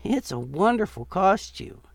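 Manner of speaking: put-on high, kindly elderly voice; lightly voiced old woman; sweet old lady.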